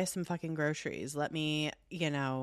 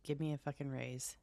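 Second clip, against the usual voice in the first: low breathy whispered grumble; 4 semitones lower, 9 dB quieter than usual. Real, not acted. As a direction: whisper it under your breath. Muttered complaint about gifts.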